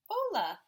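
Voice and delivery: Hola said high and loud; Spanish hello. Shown as a demonstration. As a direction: demonstrate the Spanish word. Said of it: "That's how he says hello".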